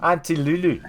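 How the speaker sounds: put-on a mild, clumsy South African accent; bad South African accent. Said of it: "my terrible South African accent there".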